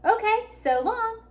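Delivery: cheery tumbleweed farewell; cheerful. A narrator's reading. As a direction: wave her off brightly. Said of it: "said Rosie cheerfully".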